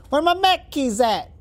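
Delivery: high, slow, hammed-up Brooklyn holler; Brooklyn accent. Gamer as a mech pilot who can't say khakis, hammed-up Brooklyn accent. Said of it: "That's my Brooklyn accent".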